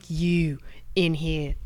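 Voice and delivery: slow, hushed Australian impression; Steve Irwin. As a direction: summon someone in a hushed Australian accent. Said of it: "Steve saw my dad".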